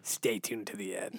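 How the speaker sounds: whispered aside. Real, not acted. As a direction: whisper it like a secret. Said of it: "teaser aside whisper".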